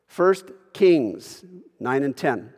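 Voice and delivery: ordinary delivery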